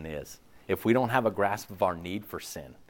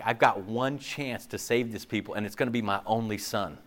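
God voiced pleading; 11 dB louder than usual. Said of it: "he's like".

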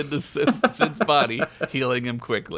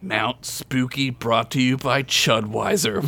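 ominous. Acted. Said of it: "Fred said ominously".

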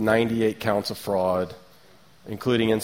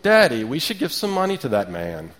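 put-on three-year-old child; 3 semitones higher than usual. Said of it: "a three-year-old conscience in the back seat".

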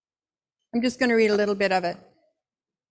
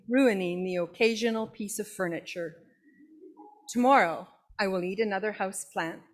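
grumpy bored cat. Acted. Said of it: "the kind of grumpy bored cat Dear Diary".

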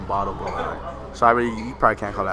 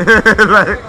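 laughing; 8 semitones higher, 10 dB louder than usual. Real, not acted. Laughs at his own story.

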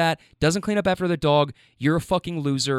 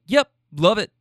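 slightly higher sarcastic yes-man; mock agreement; 4 semitones higher, 4 dB louder than usual. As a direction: pretend to go along with it. Mimes meekly giving in, sarcastically.

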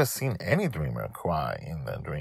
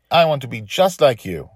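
put-on high, louder child voice; little girl voice; 8 semitones higher, 8 dB louder than usual. Dragon Lil telling her father, in a high child voice. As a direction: play a small girl dreaming big. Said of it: "she told him casually".

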